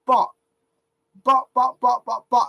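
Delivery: flustered and sputtering, fast; stumbling over buts in annoyance; real irritation tripping on words. Real, not acted. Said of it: "I'm getting fucking annoyed 'cause I'm getting flustered".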